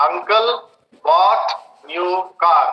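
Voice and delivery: ordinary talk, nothing marked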